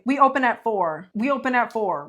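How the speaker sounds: mildly curt, firm mock staff reply; not so nice. Bar worker telling a customer the opening time, mildly curt. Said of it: "could have said it a little bit nicer".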